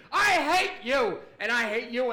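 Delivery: loud, high-pitched mock rage; angry outburst. Bar fixer lashing out at the staff, comic yell. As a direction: drag out the first one, hammed-up shout.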